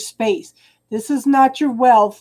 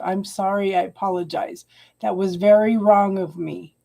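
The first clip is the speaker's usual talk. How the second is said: contrite apology; 3 semitones lower than usual. Real, not acted. Apologizing to client for not asking permission first, contrite.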